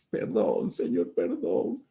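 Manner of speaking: low, slow, broken plea for forgiveness; tearful prayer. Retold or imitated. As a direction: beg forgiveness as if in tears. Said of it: "me tiré a llorar y decir".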